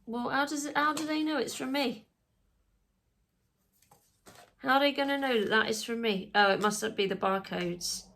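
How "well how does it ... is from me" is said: worried question. Real, not acted. Worried about the test.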